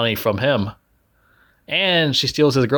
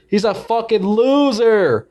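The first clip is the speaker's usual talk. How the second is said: higher, slow scornful verdict; contemptuous; 8 semitones higher, slower than usual. Real, not acted. Mocking the movie hero, slow and scornful. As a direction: drag it out with disdain.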